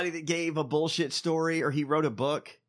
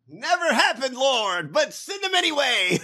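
higher mock preacher, lightly voiced; mock prayer; 7 semitones higher, 4 dB louder than usual. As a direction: toss off a parody prayer, a hint of pulpit. Parodying the host's prayer.

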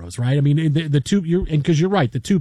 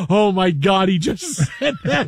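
retold disbelief; 2 semitones higher than usual. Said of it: "we're all in the studio going".

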